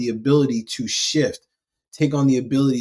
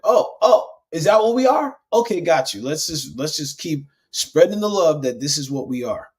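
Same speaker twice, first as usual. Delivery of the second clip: high, eager little voice, higher at first; cells answering; 3 semitones higher than usual. Pretend. His cells cheerfully accepting the label, in a high voice. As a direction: play the cells, chirpy and obliging.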